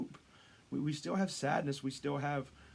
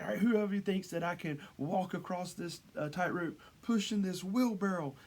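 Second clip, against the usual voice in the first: higher-pitched mock showman's call; yelling to crowd; 5 semitones higher than usual. High-wire performer daring the crowd, mock calling out. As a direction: imitate a performer working the crowd. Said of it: "yelling out to the crowd".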